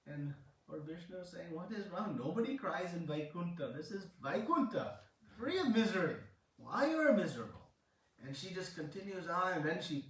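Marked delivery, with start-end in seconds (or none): 1.5-7.7 retold incredulous questioning, pitch swooping up; lightly acted bafflement at her misery; puzzled protest. Lord Vishnu asks crying Mala Mas what is wrong, puzzled protest.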